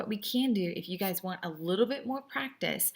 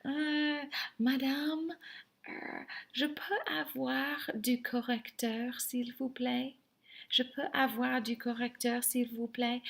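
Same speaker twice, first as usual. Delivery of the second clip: student asking; 5 semitones higher than usual. Retold or imitated. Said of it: "So Alex might say".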